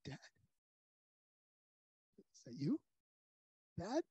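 a weak son answering softly from the floor. Retold or imitated. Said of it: "a very soft voice says".

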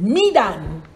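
"Medan" with a long EE and open final AHN; careful pronunciation. Shown as a demonstration. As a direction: say "Medan" as MEE-dahn, drawn out.

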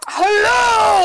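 loud, high put-on hello; silly voice. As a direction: call out in a goofy voice. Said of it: "I'll do another voice".

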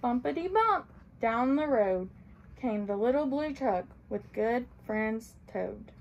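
gentle storybook read-aloud; reading to children. A narrator's reading. Librarian reading a picture book to children, gently.

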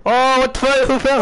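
sudden startled yell; surprised shout. Real, not acted. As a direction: blurt it out in shock. Teammate suddenly falls off.

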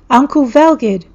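calling out. A narrator's reading. Sigrun calling out to him.

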